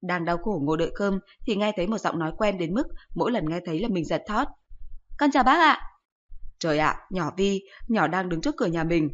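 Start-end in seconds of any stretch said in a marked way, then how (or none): 5.2-5.8 put-on higher, louder sweet girl voice; polite young girl. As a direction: greet an elder like a well-mannered schoolgirl. Girl greets friend's mother.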